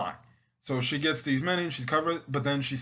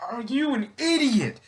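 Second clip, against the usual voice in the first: much higher, louder mock yell; exasperated yell; 11 semitones higher, 3 dB louder than usual. Fan yelling at Courtney for being reckless, high exasperated mock yell. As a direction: yell it at her in disbelief.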